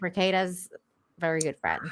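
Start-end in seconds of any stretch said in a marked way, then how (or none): 1.2-1.8 hushed whisper. Real, not acted. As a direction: whisper it as an aside. Unvoiced aside about a friend.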